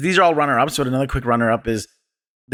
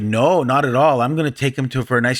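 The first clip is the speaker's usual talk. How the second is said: mock-reassuring retold offer; lightly sarcastic, pretending to be nice. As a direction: imitate a sarcastic comeback. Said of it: "the sarcastic response".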